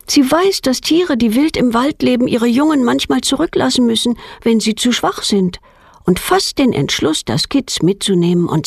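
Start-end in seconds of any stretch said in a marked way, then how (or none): none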